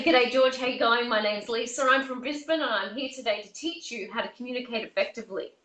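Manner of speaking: relaxed broad Aussie, quick at the end; broad Australian. Shown as a demonstration. Coach greeting a rural client George, lightly broad Australian. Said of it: "I'd say".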